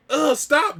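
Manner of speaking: high, loud mock objection; acted-out protest. Boy telling the girl to stop, re-enacted high, loud protest.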